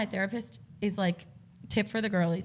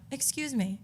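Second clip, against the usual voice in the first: retold nice-girl politeness; very kind; 5 semitones higher, slower than usual. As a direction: get their attention kindly and gently. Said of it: "And I was being very kind".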